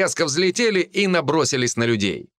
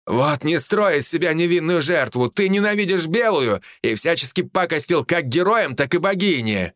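higher-pitched, indignant accusation; accusing villain; 5 semitones higher than usual. Acted. Hawk accuses druid of sabotage, indignant raised voice. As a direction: accuse with heated conviction.

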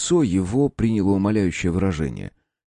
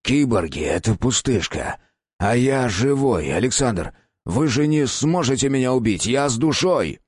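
grasping at straws; 5 semitones higher than usual. Acted. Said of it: "ухватился Штайнберг за соломинку".

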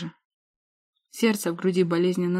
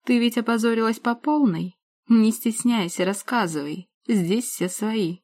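taunting; 4 semitones higher than usual. Acted. Sister taunts.

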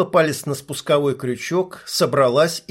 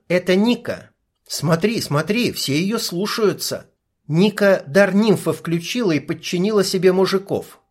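higher, lightly voiced young woman; female sniper voice; 5 semitones higher than usual. Sniper briefing her partner through binoculars, young woman's voice. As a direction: narrator gives the sniper her own voice.

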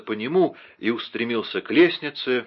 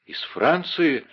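higher, slow surprised question; eager surprise; 7 semitones higher, slower than usual. Acted. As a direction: catch at the news. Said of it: "воскликнул Бекингем". (удивлённо, с надеждой)

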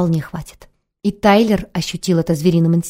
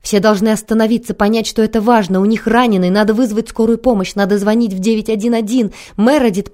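near tears; 3 semitones higher than usual. Acted. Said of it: "простонала она, чуть не плача".

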